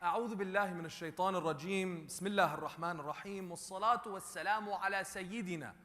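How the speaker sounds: fast ritual opening prayer; rapid Arabic recitation. Acted. Preacher opening the sermon with fast Arabic prayer. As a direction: rattle off the opening formula.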